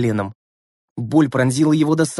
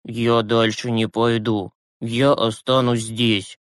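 weary; 3 semitones lower, slower than usual. Acted. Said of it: "вымученно взглянул на них".

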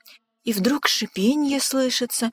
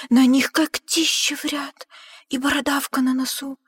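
louder and higher, wide-eyed fright; awed dread; 6 semitones higher, 5 dB louder than usual. A narrator's reading. Narrator gasping at the Gruffalo's fearsome looks. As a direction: tell it as if the monster stands right there.

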